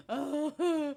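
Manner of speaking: loud mock groan; protesting groan. Sick kid told to get in the bath, groaning.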